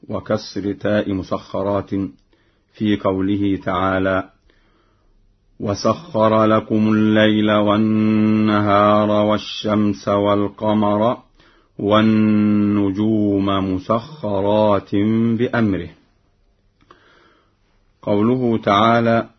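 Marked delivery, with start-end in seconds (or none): 5.6-15.9 slow chanted tajweed recitation; Quran recitation. Shown as a demonstration. Teacher reciting the verse for students, chanted slowly. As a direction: intone the verse slowly, melodically.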